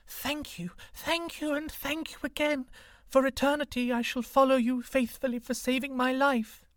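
grateful green snake. A narrator's reading. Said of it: "she said".

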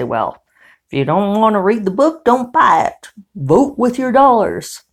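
put-on high, loud rural hick accent; mock a rural hick telling people to vote with their dollars. Imitating people who defend buying the book, in a hick accent. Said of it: "I probably shouldn't do that in a hick accent".

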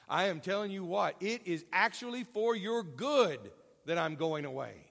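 a touch of Texan insistence; emphatic Texas phrasing. Retold or imitated. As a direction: drive it home like a Texan. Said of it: "the way they would say it in Texas".

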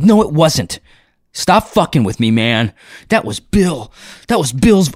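mildly heated, insistent contradiction; retold indignant protest; mock angry denial. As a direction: imitate someone fed up with being messed with. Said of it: "He got so mad".

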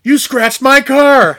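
high, slow, indignant wail; Jim Carrey impression. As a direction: whine it out like a wronged kid. Quoting Liar Liar scene.

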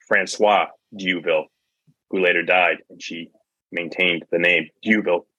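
flat, even robot reading. Acted. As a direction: read it out like a chatbot. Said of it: "you were reading like a robot".

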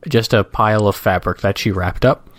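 slow, measured reading aloud; comic strip read-aloud. Acted. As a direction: describe the cartoon at an easy pace.

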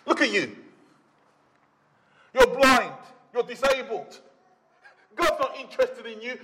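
mock the blind man with contempt; sneering religious leaders. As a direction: look down your nose and mock him. Preacher voices sneering religious leaders.

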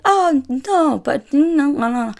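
high, put-on clueless waiter voice; playing dumb waiter. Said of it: "starts acting like he doesn't know English".

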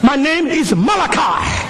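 put-on a boy telling his grandfather the right way to say his name; child's voice. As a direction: correct the grown-up patiently. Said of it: "He goes".

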